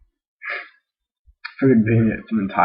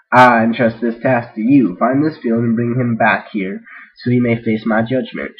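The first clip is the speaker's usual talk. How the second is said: a lightly voiced king, louder, giving a solemn command; royal declaration; 5 dB louder than usual. King declaring a task to the knight, louder and solemn. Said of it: "she declared".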